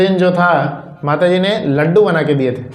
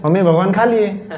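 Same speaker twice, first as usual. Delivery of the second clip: put-on happy child. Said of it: "खुशी खुशी".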